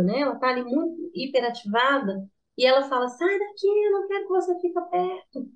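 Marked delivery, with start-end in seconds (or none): 3.1-5.5 much higher mock child pushing mom away; angry child. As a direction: play a furious little kid shouting go away, lightly.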